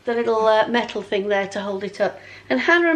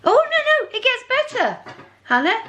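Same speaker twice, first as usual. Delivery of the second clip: excited; 12 semitones higher than usual. Real, not acted. Excited reveal of brand name.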